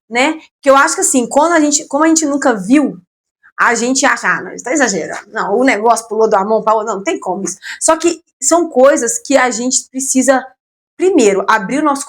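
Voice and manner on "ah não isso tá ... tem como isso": scoffing skeptic. Retold or imitated. Imitating people who doubt.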